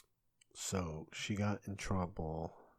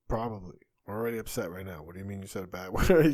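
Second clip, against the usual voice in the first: mock outburst, louder, breaking into a laugh; loud laughing disbelief; 11 dB louder, faster than usual. Father to daughter about a bad word, loud half-laughing disbelief. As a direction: play up a half-laughing dad's exasperation.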